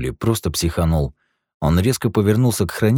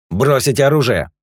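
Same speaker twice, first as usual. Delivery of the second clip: high, loud command; stern order; 8 semitones higher, 4 dB louder than usual. A narrator's reading. Guard orders Eugene to drop his gun, stern. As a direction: order it flatly. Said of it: "приказал хранитель".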